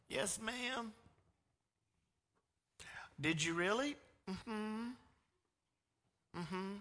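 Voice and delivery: put-on high, meek little boy; small kid mumbling yes; child denying. Little boy denying to his mom.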